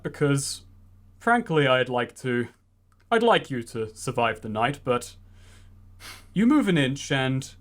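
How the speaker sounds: lightly voiced sly villain; a hint of a bitter usurper; scheming villain uncle. Droog threatens Pratt.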